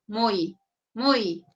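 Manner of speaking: muy drawn out like a moo; mooing "muy" to show the diphthong; cow-like muy. Shown as a demonstration. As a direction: stretch the vowels of muy like a little cow. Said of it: "Parezco vaquita".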